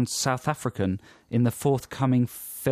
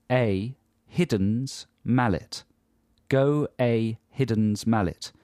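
South African accent; slower than usual. Shown as a demonstration. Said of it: "in a South African accent".

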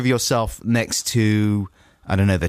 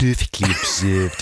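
put-on Australian accent; slower than usual. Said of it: "the way you do your little sibilant T's".

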